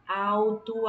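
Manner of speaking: "alto" with emphasis on AL; stress on penultimate syllable. Shown as a demonstration. Teacher giving pupils an example, stressed AL in "alto". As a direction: lean firmly on the AL of "alto". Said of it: "Então, é a penúltima".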